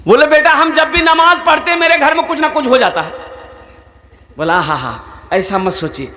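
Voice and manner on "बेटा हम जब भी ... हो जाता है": higher, faster repeat for a listener who didn't catch it; old man repeating himself higher to the young man; louder repeat. Retold or imitated. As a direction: say it again, raised and quick. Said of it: "की बोली जाओ".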